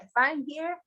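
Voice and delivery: lightly voiced rabbi, gently amused; smiling, chuckling rabbi. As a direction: say it lightly through a contented smile. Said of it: "he's smiling and he's chuckling".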